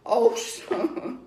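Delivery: lightly voiced pleading father; weary dad. Career Army father begging his son to twirl indoors, a hint of weariness. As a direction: plead gently like an embarrassed dad. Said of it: "My dad said".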